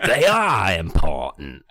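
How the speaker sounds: low, slow character bellow. Acted. Caped man reading his line, bellowed low and slow. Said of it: "The Cape Man bellowed".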